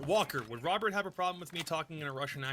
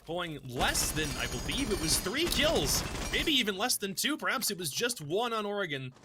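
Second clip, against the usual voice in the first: esports play-by-play; 2 semitones higher than usual. Acted. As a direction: narrate the fight as it unfolds. Live play-by-play casting.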